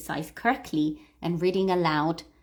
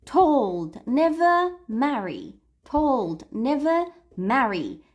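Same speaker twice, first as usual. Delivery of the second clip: rhythmic "told", "never", "marry", with "never" raised; stressed words; 4 semitones higher, 3 dB louder, slower than usual. Shown as a demonstration. Teacher drilling the stressed words, punched "told", "never", "marry". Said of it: "These are the three words we're going to stress".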